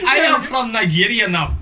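put-on Nigerian accent. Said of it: "It's Jamaica".

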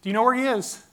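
mild mock yell, frantic; shouting up the road to the brother-in-law; retold scream. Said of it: "and I scream out".

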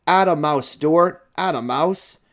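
high, loud crowd cheer. A narrator's reading. People cheer for Stuart back at the helm, calling out. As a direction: call out hearty encouragement. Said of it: "people cheering for him and calling".

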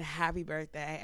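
soft, slow murmur imitating a whisper; retold whisper. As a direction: lean in low and quiet, lightly imitating a whisper. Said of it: "leaned over and whispered in his ear".

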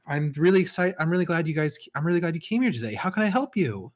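high, bright, eager shopkeeper greeting; Echo Grasshopper voice. Acted. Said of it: "this elf woman with bubblegum pink hair comes and greets you".

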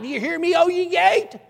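high, loud shouted demand; shouted challenge. Retold or imitated. Preacher's climax commanding the gate, high shout.

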